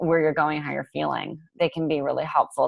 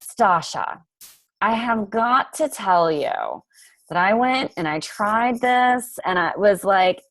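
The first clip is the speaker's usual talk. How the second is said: hammed-up Southern accent, higher and brighter; 5 semitones higher than usual. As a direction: play the chatty Southern client telling her story. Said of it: "she's got this thick Southern accent".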